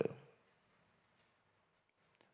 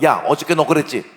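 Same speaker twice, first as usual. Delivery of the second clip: louder, higher scolding call; 5 semitones higher, 8 dB louder than usual. Acted. Adult calls a child in about yesterday, scolding. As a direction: call the child over to tell them off. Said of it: "그 다음날 너 불러다".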